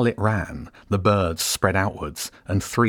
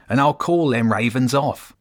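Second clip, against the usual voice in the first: higher, louder threatening rat; sharp rat voice; 6 semitones higher, 4 dB louder than usual. A narrator's reading. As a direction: bargain like a sly menacing rat. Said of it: "the rat said sharply".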